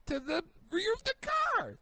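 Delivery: high-pitched exasperated insistence. Real, not acted. Reviewer demanding the black continue around the car, exasperated. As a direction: push it up high in frustration. Exasperated rant at paint scheme.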